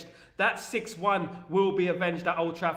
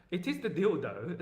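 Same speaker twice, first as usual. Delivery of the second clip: laughing English accent. Shown as a demonstration. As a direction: chuckle out the line. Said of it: "It's my old English accent".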